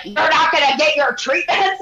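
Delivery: high-pitched mock yell; retold yelling. Owner walks in on guest, yelling. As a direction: imitate someone bursting in yelling. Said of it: "he screamed at me".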